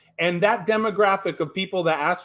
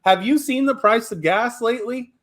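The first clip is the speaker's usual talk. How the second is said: higher, louder retort; retort to a client; 4 semitones higher, 3 dB louder, faster than usual. Retold or imitated. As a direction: push back hard, asking pointed questions. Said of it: "And I go".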